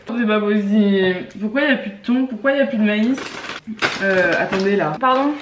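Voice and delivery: can't believe the food is gone; indignant disbelief. Real, not acted. To viewers on finding the kitchen empty, indignant disbelief. Finds no tuna or corn.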